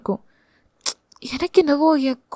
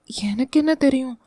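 small, softer helpless reply; weak voice; 6 dB quieter than usual. Acted. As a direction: shrink away as you answer. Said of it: "நலிந்த குரலில்". (நலிந்த குரலில்)

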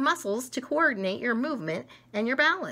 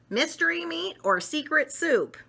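high dramatic choice; 8 semitones higher, 3 dB louder than usual. Acted. Character choosing.

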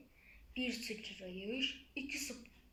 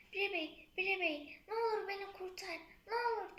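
high, urgent begging for help; pleading cry; 7 semitones higher, faster than usual. Acted. Drowning hen begs Pire Bey, high and pleading. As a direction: plead fast and high to be saved.

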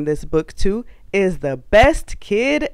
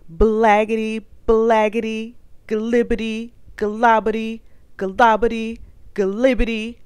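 silly babble; 4 semitones higher than usual. Acted. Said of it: "make silly sounds like".

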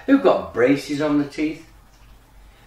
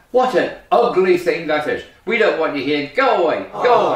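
mildly mocking, emphatic animal crowd; jeering farm animals; 3 dB louder than usual. Farm animals send the ugly duckling away, jeering. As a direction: drive him off with rising insistence.

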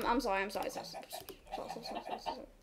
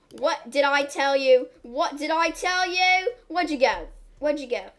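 mock scolding; 3 semitones higher, 6 dB louder than usual. Telling off a wandering game animal, mock stern. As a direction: scold the bad pet playfully.

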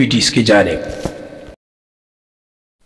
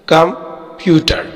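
"कंप्यूटर" slowly, with a break after कं; partly split word; 4 semitones higher, slower than usual. Shown as a demonstration. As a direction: pause once inside "कंप्यूटर": कं, प्यूटर. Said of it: "इसमें तीन syllable है". ("कंप्यूटर" کو کم، پیوٹر کر کے)

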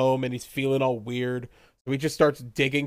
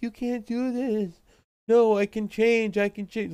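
mock pleading mother; 7 semitones higher than usual. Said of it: "He's like".

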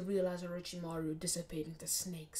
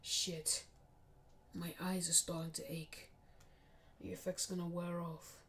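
softer, muttered realisation to himself; dawning realisation; 2 semitones lower, 8 dB quieter than usual. Acted. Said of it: "he realizes".

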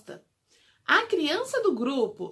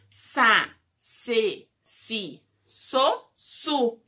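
syllable drill; much slower than usual. Shown as a demonstration. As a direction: spell out every syllable for small kids. Syllable recap for kids.

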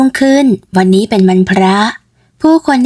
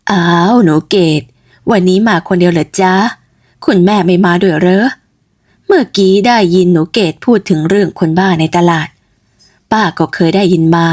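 put-on old auntie; 2 semitones lower than usual. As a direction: greet the neighbour girl like a kindly aunt. Old aunt Tim greets Ked. (ป้าติ๋มทักหนูเกด เสียงต่ำแบบหญิงสูงวัย)

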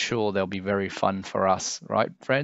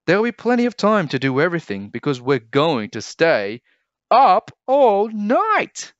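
high, loud building cheer; 10 semitones higher, 7 dB louder than usual. A narrator's reading. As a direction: cheer it out together. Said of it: "cheered Jim and his siblings".

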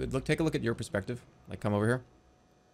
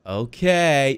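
drawn-out, loud pretend okay; playful seeker; 3 semitones lower, 5 dB louder than usual. Shown as a demonstration. Seeker opening the game for a small child, drawn-out and playful. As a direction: stretch it out like starting a search. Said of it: "you gotta start like this".

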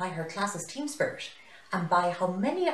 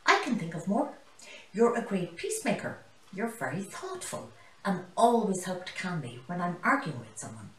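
exclaiming; 3 semitones higher than usual. Acted. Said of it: "exclaimed Zane the zebra".

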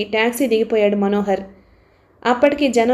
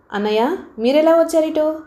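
higher, surprised question; 6 semitones higher than usual. Acted. Pinky asks her brother how he got here, higher and surprised. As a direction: ask it in happy disbelief. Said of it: "ఆశ్చర్యంగా అడిగింది పింకీ".

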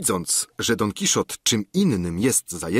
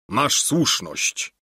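slow assent; 3 semitones higher, much slower than usual. Acted. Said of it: "odpowie Don Kiszot".

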